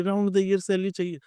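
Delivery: the mock demand repeated, falling off; faint parroted whine. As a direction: echo the kids' demand, trailing down. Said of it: "बच्चे पागल की तरह कह रहे हैं".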